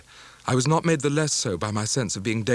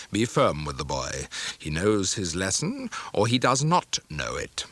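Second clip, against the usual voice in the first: lower, cold and commanding; stern stepfather; 4 semitones lower than usual. Acted. Stepfather instructing mother to be firm, coldly stern. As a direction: lay down the law to his wife.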